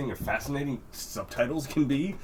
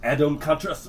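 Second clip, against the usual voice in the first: Adam Contrast said the American way, lightly voiced; a hint of an American trailer read; more American; 3 semitones higher than usual. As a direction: mimic a trailer voice saying it American. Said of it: "say it more American".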